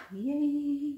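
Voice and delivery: high, loud little yay; excited cheer. Real, not acted. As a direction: cheer for yourself. Cheering a finished piece.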